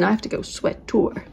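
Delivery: sweater with an American r, swet-er; funny American accent. Shown as a demonstration. Telling viewers abroad the word, in a mock American accent. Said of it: "I have to say it in a funny accent".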